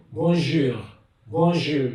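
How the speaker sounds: bonjour said cleanly, French nasal o; model French bonjour. Shown as a demonstration. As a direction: say bonjour for students to copy.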